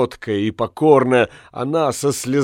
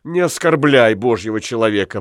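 reproachful wife. Acted. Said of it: "прервала его Калликен".

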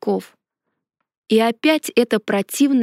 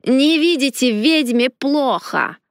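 creaky unpleasant voice; 3 semitones higher, slower than usual. A narrator's reading. Same creaky stranger continues.

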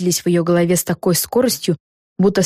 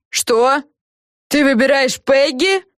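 higher, slow incredulous question; indignant disbelief, pitched up; mild roar; 8 semitones higher, slower than usual. A narrator's reading. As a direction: draw it out in disbelief. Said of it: "взревела Фелисити".

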